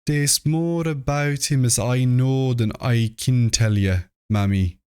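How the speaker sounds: a hint of a frightened albino mother confiding; fearful complaining old woman. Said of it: "complained to Mammy Bishop of being afraid".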